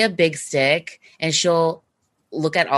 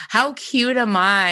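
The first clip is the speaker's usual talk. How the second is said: sarcastic; 6 semitones higher, slower than usual. Retold or imitated. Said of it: "I'm, like, oozing sarcasm".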